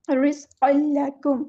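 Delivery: रिज़्क़ल लकुम with the nunation merged into लाम; idgham recitation. Shown as a demonstration. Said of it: "इस तरह ... mix up कर देना है". (तनवीन को लाम में मिलाकर पढ़ना)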